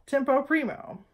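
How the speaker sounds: tempo primo with rolled Italian vowels; Italian pronunciation. Shown as a demonstration. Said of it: "Number one".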